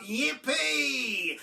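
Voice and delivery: high, loud whoop; cried out. A narrator's reading. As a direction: whoop with glee. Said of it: "cried out".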